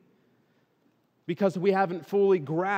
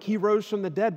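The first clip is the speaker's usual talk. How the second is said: higher, lifted announcement; excited; 7 semitones higher, 5 dB louder than usual. Acted. Disciples who just saw the empty tomb, acted excitement. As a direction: imitate the disciples' excited news. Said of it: "they're so excited".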